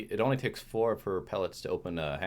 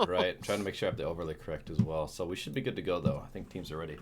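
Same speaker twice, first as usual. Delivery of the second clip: with a bloody nose. Real, not acted. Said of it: "you gotta deal with your bloody nose still".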